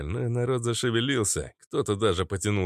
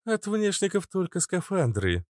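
curt; 10 semitones higher than usual. A narrator's reading. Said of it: "коротко сообщил Иштар".

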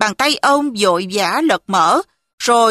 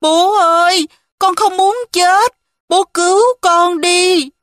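put-on crying child; 6 semitones higher than usual. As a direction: beg through tears like a frightened little girl. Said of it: "hai cha con cùng bật khóc".

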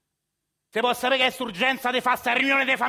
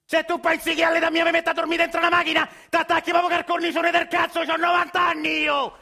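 angry outburst. Acted. Grandpa yelling at his grandson about the car. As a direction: bark it out, outraged at the idea.

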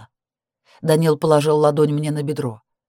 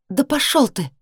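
higher, angry repeat; angry retort; 9 semitones higher than usual. A narrator's reading. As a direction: fling it back at him. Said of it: "повторила я".

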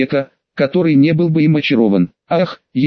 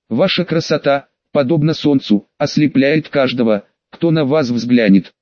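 ringing with feeling. Acted. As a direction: proclaim it with pathos. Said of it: "Мой голос звенел от вкладываемых чувств".

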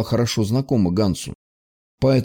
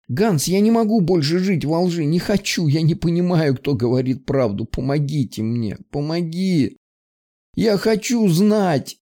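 much higher, begging through tears; pleading, voice cracking; desperate plea; 6 semitones higher than usual. Acted. Girl begs in despair.

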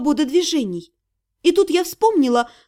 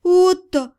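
pleading; 4 semitones higher than usual. Acted. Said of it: "сказала я умоляюще".

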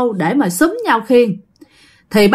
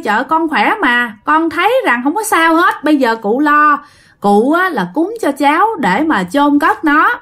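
higher, lightly voiced carefree brush-off; dismissive reassurance; 4 semitones higher than usual. Nguyên brushing off the shaman's warning, carefree and higher. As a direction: laugh it off, tell the old man not to worry, pitched up.

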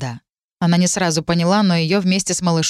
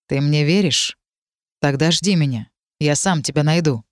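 lower, a hint of Bei; low remembered man; 3 semitones lower than usual. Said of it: "Зачем он так сказал".

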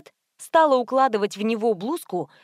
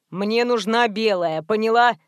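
menacing thug. Acted. Menacing customer.

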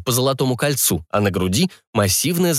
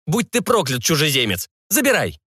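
higher-pitched exasperated surrender; cursing seller; 5 semitones higher than usual. Acted. Seller cursing a foreigner who outbargained him, exasperated. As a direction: curse the buyer while giving in. Beaten seller curses the buyer.

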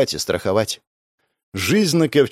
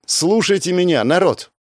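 raised, higher call to the crowd; loud call; 8 semitones higher than usual. Acted. First mate addressing the frightened crowd, a loud higher call. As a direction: grab the crowd's attention. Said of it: "громко произнесла Старпом".

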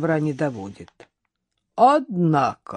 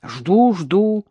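grumbling; 3 semitones higher, 4 dB louder than usual. A narrator's reading. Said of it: "ворчливо сказал мужчина".

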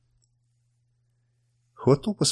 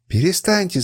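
high pleading shout to stop; desperate cry; 7 semitones higher than usual. A narrator's reading. Woman begging two fighters to stop, high cry. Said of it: "закричала Сура".

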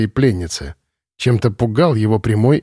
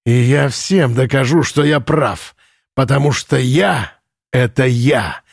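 put-on drunken megalomaniac rant; 2 semitones higher than usual. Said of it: "с досадой думал Лен".

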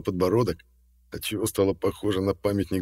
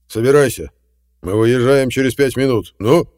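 sharp, loud ordering; loud command; 5 semitones higher, 10 dB louder than usual. A narrator's reading. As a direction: snap orders at the girl. Ordering the girl.

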